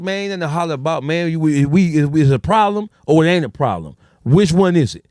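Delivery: challenging. Retold or imitated. Friend challenging, getting louder.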